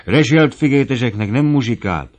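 high, forceful complaint; emboldened protest. A narrator's reading. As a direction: join the rebellion indignantly. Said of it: "a többiek is neki bátorodának".

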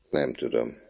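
put-on boy answering the prefect, timid. A narrator's reading. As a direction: mumble it like a scared child.

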